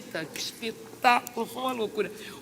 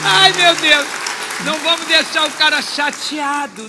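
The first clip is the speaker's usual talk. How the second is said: loud exclamation; 5 semitones higher, 13 dB louder than usual. Real, not acted. Laughing aside at the audience.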